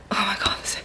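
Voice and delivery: broken off by a hiccup. Real, not acted. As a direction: caught mid-hiccup. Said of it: "when I got rid of my hiccups".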